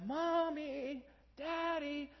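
put-on high little-kid voice calling for parents; toddler calling. Pastor imitating his toddler son calling for mom and dad, high child voice. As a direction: call out like a three-year-old at dawn. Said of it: "all of a sudden we hear".

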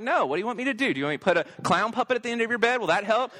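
high-pitched mock exasperation; frustrated dad. Dad answering kids who won't go to bed, retold sarcastic frustration. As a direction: retort like a parent at wit's end. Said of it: "I'm just frustrated. I'm annoyed".

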